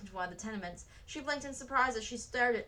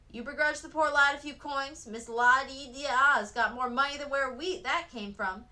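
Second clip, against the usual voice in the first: louder, slow indignant retort; yelling back; 5 semitones higher, 7 dB louder than usual. A narrator's reading. Sophie yelling back at the window woman, indignant retort. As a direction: throw it back in her face. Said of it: "Sophie yelled back".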